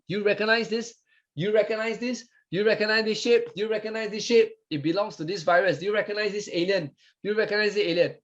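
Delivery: messenger asking around. Acted. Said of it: "asking all the T cell".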